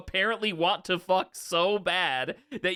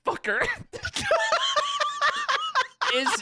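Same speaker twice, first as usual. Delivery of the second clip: TikTok voice; 13 semitones higher than usual. Pretend. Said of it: "I can't stop doing the voice now".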